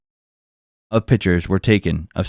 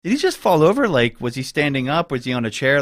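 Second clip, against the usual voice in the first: retold inner alarm; 6 semitones higher than usual. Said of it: "in my head, I'm like".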